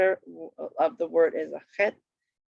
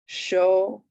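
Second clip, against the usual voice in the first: broken into syllables; 2 semitones higher, 5 dB louder than usual. Shown as a demonstration. Teacher showing students a Hebrew word, "shomeret" broken down. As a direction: break "shomeret" apart, syllable by syllable. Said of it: "when you can break it down".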